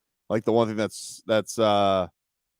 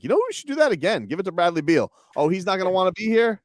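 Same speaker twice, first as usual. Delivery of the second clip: higher-pitched mock team management; imitating team management; 6 semitones higher than usual. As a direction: voice the team's bosses, pitched up. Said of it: "the Wizards were like".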